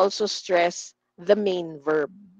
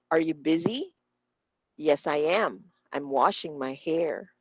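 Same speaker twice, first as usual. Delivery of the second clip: BUSY, YES, AM, WASHING, HAIR stressed, rest glided over; low model reading leaning on "busy", "am", "washing", "hair"; content words stressed; 4 semitones lower, 4 dB quieter than usual. Shown as a demonstration. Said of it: "I will repeat how we say this".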